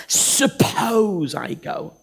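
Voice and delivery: slow noncommittal "Suppose I go" with a rise; reluctant hedge; hesitant Moses. Acted. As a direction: drag it out, unwilling. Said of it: "He's not committing himself".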